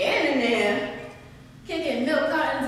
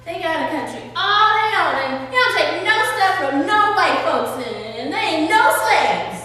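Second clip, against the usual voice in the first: put-on louder, proud little girl's brag; proud boast; 2 semitones higher, 5 dB louder than usual. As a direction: brag it out, chin up. Girl boasts about Haiti.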